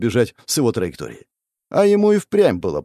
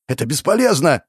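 yelling; 5 semitones higher than usual. Acted. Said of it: "заорал он".

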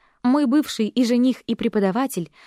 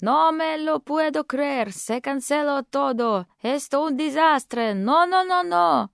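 higher, slow Spanish wail building to a shrill no, no; cousin's despairing rant; 4 semitones higher, slower than usual. Acted. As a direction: wail like the world has ended. (отчаянная тирада кузины по-испански)

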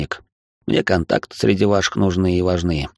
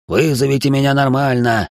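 shrieking falsetto yell; 6 semitones higher than usual. A narrator's reading. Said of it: "срываясь на виск и фальцет, заорал".

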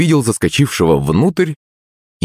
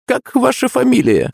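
much higher, pointed question; stern teacher. A narrator's reading. Teacher challenging the cheeky pupil, sternly. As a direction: squint and demand his name. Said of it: "сощурился".

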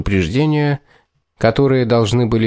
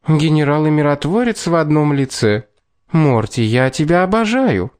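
higher cooing flirtatious voice; femme fatale; 5 semitones higher than usual. Acted. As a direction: coo it teasingly to him. Kat cooing at Morton.

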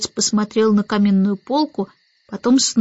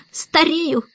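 higher, mildly rueful; sad remark; 6 semitones higher than usual. A narrator's reading. Starling admits his age to Mary Poppins, rueful. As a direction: sigh the word wistfully. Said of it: "грустно заметил он".

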